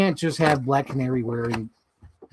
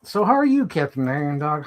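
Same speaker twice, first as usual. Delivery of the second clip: sing-song greeting. Acted. Greeting the figure in a put-on voice.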